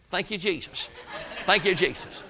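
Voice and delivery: chuckling as he quotes the birds; laughing. Retold or imitated. Preacher laughing as he quotes his mother's birds. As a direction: laugh it out, mock-voiced.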